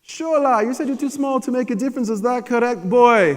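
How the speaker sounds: stern African dad. Retold or imitated. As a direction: summon the boy like a stern father. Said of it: "He's like".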